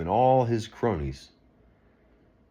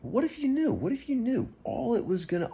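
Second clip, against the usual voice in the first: much higher, pleading; impassioned plea. Real, not acted. Pressing viewers with a high, urgent question. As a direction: reach out with urgency.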